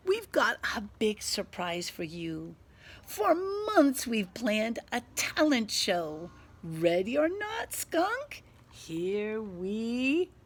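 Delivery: loud, high, bubbly announcing; excited mole. Acted. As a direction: burst with the surprise. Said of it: "squeals Mole".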